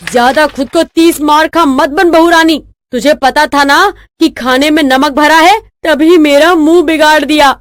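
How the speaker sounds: acted angry tirade; heated, accusing mother-in-law rant; bitter scolding. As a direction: lash out at the daughter-in-law. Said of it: "कमला की कड़वी बातों को सुनकर".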